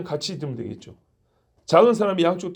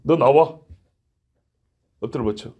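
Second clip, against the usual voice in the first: drill sergeant; 5 semitones lower than usual. Retold or imitated. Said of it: "교관은 어떻게 해요?".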